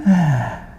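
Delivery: sigh. Shown as a demonstration. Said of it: "when you".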